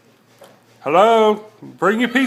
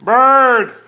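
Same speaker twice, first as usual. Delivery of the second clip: excited shout; 3 semitones higher, 6 dB louder than usual. Real, not acted. Spotting the bird.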